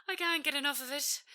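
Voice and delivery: high, fast, laughing; bubbling happy laugh; laughing delight. Acted. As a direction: giggle through the words with joy. Nina delighted by freedom.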